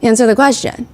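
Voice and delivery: mildly authoritative retold demand. Lawyer confronting a witness from the start, mildly authoritative. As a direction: imitate a firm questioner, without hostility. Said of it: "very authoritative".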